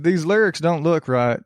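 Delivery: generic country hick drawing doubts; Southern hick accent. Acted. Printer eyeing the lyrics, in Southern hick accent. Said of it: "process voice always defaults to General Hick".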